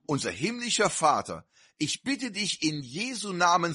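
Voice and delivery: a preacher's earnest closing prayer, pleading with God; inbrünstiges Gebet. Real, not acted. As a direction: pray it out to the congregation with rising fervour. (Gebet des Predigers an die Gemeinde, inbrünstig flehend)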